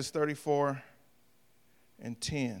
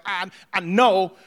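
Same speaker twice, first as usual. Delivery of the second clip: a slow, louder put-on voice of a worn-out believer; weary believer; 6 dB louder, slower than usual. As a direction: drag out a tired sigh of a believer. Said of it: "who else like me gets tired".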